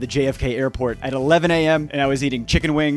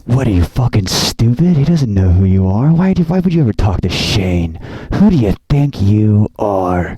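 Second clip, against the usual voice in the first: loud, slow, low scornful inner voice; the other wolf jeering him down, loud and slow; 5 semitones lower, 7 dB louder than usual. Retold or imitated. Inner voice mocking himself, loud and scornful. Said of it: "the other wolf inside me was like".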